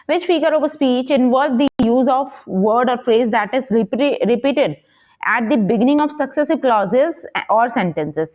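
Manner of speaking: slow, measured question read-out. Acted. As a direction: read the exam question out slowly, word by word. Reads quiz question aloud.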